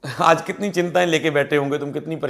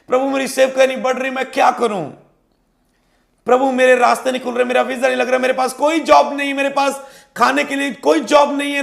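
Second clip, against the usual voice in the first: raised, pleading cry to the Lord, one worry after another; pleading believer's prayer; 5 semitones higher than usual. Acted. Believer crying out to the Lord over troubles, pleading higher. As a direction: beg God for help, rising in distress. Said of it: "ऐसा कोई हालात जिसके विषय में आप सोच रहे".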